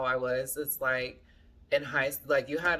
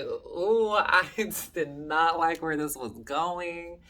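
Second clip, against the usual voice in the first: loud, high "ooh" of dismay; retold uneasy reaction; 4 semitones higher, 5 dB louder, slower than usual. Telling viewers how his offer landed, loudly dismayed. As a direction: recoil out loud, drawing it out.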